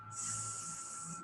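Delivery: voiceless hissed "Seems"; sounding out. Shown as a demonstration. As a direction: breathe "Seems" out slowly. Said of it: "Let's do it".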